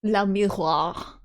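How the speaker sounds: "La miroir" slowly copied from a French model; copied French pronunciation. Shown as a demonstration. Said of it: "someone's given a guide on how to pronounce it".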